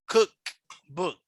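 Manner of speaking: "cookbook" split into two stressed beats, COOK, BOOK; teacher sounding out "cookbook" in two parts; two stresses. Shown as a demonstration. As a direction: give both halves of "cookbook" their own weight. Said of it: "So you have two stresses".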